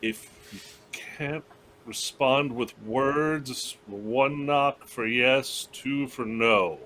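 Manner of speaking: slow, careful questioning with pauses; lightly acted, drawn-out address to a corpse; character questioning the dead. Gaius asks a corpse who did this, slow careful questioning.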